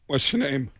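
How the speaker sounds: quiet, menacing Walken voice; a light Christopher Walken impression; hint of Christopher Walken. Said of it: "he stands up and goes".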